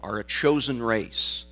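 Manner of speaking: measured, solemn Bible reading; scripture reading. Acted. Pastor reading the verses to the congregation, solemn scripture reading. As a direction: read the verses with weight and dignity.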